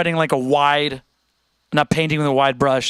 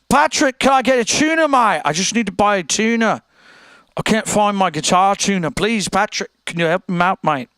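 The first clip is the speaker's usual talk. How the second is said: high, insistent mock British accent; imitated British customer, pestering; 4 semitones higher than usual. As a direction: plead in a put-on British voice, pitched up. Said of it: "he had a British accent".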